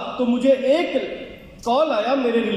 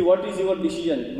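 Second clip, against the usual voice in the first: slow question; 5 semitones lower, much slower than usual. Retold or imitated. Interviewer's question acted out.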